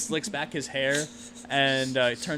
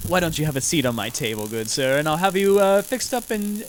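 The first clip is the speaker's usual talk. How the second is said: a hint of a mad doctor, slowing at the end; lightly voiced eccentric surgeon; mad scientist; 3 dB louder than usual.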